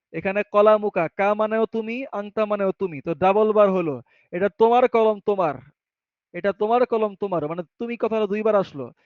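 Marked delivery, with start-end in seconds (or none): 4.3-7.5 তোমার pressed and then repeated on its own; emphasis shown. Shown as a demonstration. Teacher showing students the emphatic তোমার, stressed and repeated. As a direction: lean on তোমার to insist it is yours. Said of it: "এর দ্বারা জোর".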